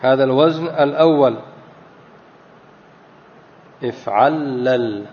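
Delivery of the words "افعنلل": slow, measured if'anlal with unvowelled nun; still nun in if'anlal. Shown as a demonstration. Teacher repeating the first pattern, nun held vowelless in if'anlal. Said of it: "لكن ننطقها ساكنة".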